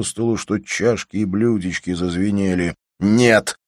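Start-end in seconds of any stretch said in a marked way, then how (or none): 3.0-3.6 exclaimed no. Acted. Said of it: "воскликнул он".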